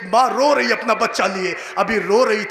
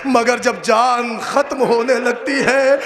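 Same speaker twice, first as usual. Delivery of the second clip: ordinary talk, nothing marked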